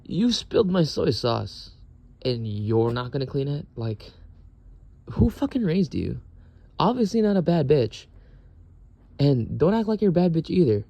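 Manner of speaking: scolding rant. Retold or imitated. Scolding the roommate over spilled soy sauce, heated.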